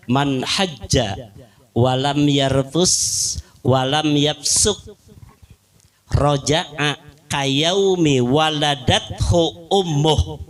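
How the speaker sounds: slow, measured hadith recitation; slow chanted Arabic. Acted. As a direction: recite it like scripture.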